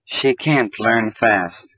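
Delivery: slow, can't leaned on; stress on can't. Shown as a demonstration. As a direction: hit the word can't. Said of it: "but we stress it in a negative sentence".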